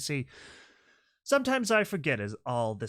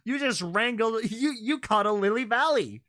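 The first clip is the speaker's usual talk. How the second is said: excited; 7 semitones higher, 4 dB louder than usual. Real, not acted. Still amazed at the catch.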